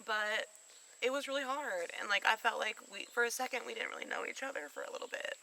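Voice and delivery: high, tearful voice breaking; talking through real tears; ugly crying. Real, not acted. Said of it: "now I'm ugly crying".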